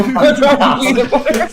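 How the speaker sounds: put-on laughing Boston accent. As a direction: quote him in a Boston accent. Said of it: "That's Joshua".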